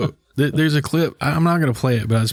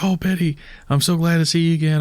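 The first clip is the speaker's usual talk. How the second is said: mock gushing, higher-pitched hello; playfully delighted to see her; gushing greeting; 5 semitones higher than usual. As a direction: imitate an actor lightly fawning over a co-star. Acting Ryan greeting Betty gladly.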